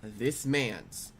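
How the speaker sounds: low, soft, grave build-up; deadly serious. Retold or imitated. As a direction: drop low and pause for suspense. Ominous build-up to shocking question.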